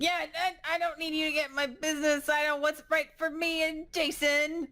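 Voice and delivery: high, fast, indignant rebuff; defensive mother. Acted. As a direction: fend her off in a high, hurried voice. Jane rebuffs the nurse.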